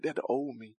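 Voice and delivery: soft, hushed mock God voice, shrugging off his past; a lightly voiced God, hushed and casual; God's voice, mock. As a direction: play God brushing off old deeds quietly. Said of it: "Like God showed today, like".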